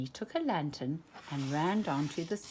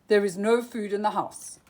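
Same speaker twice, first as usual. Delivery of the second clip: louder, insistent denial; protesting cry; 2 semitones higher, 7 dB louder than usual. A narrator's reading. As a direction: mock-desperate miser protesting. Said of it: "he cried".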